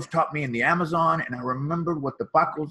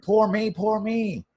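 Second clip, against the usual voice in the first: mock self-pity; 5 semitones higher, slower than usual. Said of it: "And I'm like".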